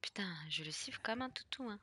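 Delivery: hushed whisper aside; softly whispered curse. Real, not acted. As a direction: whisper it so the monster won't hear. Sneaking quietly in horror game.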